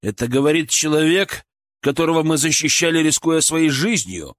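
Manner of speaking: негодующе, с растяжкой в конце; упрекнуть с растущим негодованием; возмущение. Acted. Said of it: "Николай покраснел от возмущения". (возмущённо, с нажимом)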